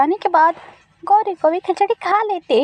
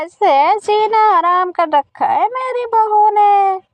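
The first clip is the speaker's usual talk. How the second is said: fed-up neighbour venting; grumbling auntie. Acted. (झल्लाई हुई पड़ोसन)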